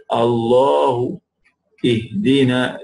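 drawn-out "Allahu", throaty "ihdina"; throat h. Shown as a demonstration. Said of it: "both originates from the bottom there".

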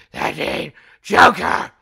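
slow, shouted protest; loud indignant outburst. Acted. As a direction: bellow it in disbelief. Rejects a Joker portrayal.

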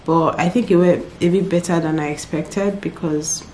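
softly spoken, drained; really tired. Real, not acted. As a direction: talk quietly with little energy left. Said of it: "I'm really tired".

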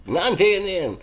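loud, punchy and quick; loud exclamation. Shown as a demonstration. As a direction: snap it out in disbelief. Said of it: "and that word is".

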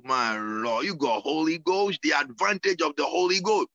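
fervent preaching with rising cries. Acted. Pastor preaching baptismal vows to his church. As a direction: urge them toward the Holy Ghost.

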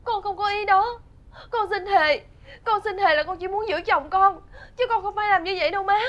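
giọng mếu máo, nói nhanh vội thề; vừa khóc vừa thề để má tin; khóc xin thề. Acted. Con dâu khóc xin tha. (con dâu khóc lóc thề với mẹ chồng)

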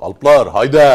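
very loud mock battle call; rallying shout. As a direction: shout it like a child leading warriors. Playing children rallying their warriors.

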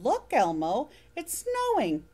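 lightly voiced mother, pleased; a hint of a gentle mom pointing out snow; mother's voice. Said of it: "glanced out the kitchen window and said".

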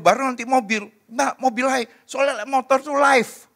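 high-pitched, animated back-and-forth protest; spirited arguing. Acted. Couple debating a car or motorbike for their child, spirited arguing. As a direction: argue it out, pitched well up.

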